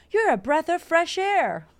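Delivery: high, slow, put-on voice of stuffy people; mock stuffy compliment. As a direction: mimic the stuffy room with a prissy lilt.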